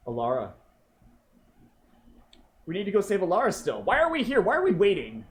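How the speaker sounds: rushed, high and loud urgency; urgent. Acted. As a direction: hurry them along, voice climbing. GM voices Alexi urgently.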